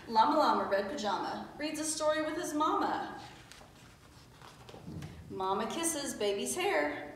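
put-on lilting read-aloud for small children; storybook reading. A narrator's reading. Teacher reading a picture book to pupils, storybook voice. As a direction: read it out in easy rhyme.

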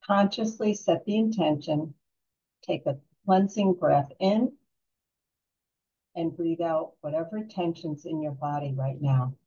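calm guided-relaxation voice with long pauses; unhurried, soothing meditation guide. Real, not acted.

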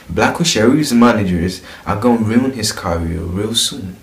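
light British London accent reading. Shown as a demonstration. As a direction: read it like a Londoner. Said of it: "we read it like this".

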